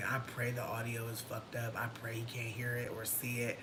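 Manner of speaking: hushed whisper; whispered, hoping nobody hears; whispered prayer. Real, not acted. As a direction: whisper the hope under your breath. Hoping camera missed it.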